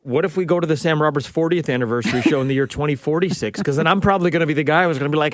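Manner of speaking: ordinary delivery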